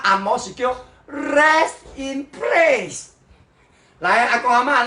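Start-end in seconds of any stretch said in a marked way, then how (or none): 0.0-3.0 "rest in place" drawn out slowly, higher; mock English. Shown as a demonstration.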